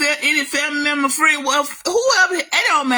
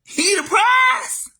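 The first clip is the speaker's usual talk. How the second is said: mocking a man; 6 semitones higher, much slower than usual. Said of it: "But when I hear a man say".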